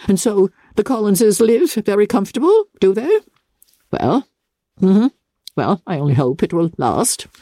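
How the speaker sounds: lightly voiced peevish mother, pitch climbing; a hint of a huffy matron nursing a grudge; spiteful Mrs Bennet. Mother complaining to Lizzie about Bingley, mildly peevish.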